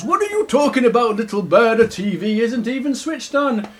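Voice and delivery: lightly voiced incredulous bear; mild baffled challenge; Big Bear. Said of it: "And Big Bear goes".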